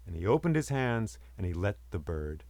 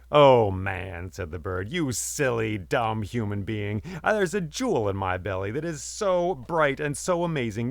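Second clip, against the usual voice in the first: mocking gloat; 4 dB louder than usual. Bird taunts the man.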